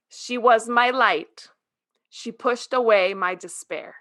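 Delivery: slow, measured literary narration; solemn storybook reading in balanced phrases; book reading aloud. A narrator's reading. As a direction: read each line deliberately, with pauses between. Reads book opening aloud.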